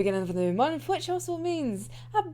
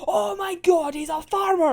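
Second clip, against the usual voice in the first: mock-thrilled, a bit louder; excited exclamation; 6 semitones higher, 5 dB louder than usual. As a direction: gush over the farmer. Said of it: "gets so fucking excited and goes like".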